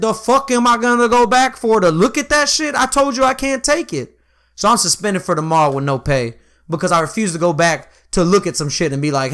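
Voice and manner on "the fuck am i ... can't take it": retold indignant. Retold angry reply to supervisor.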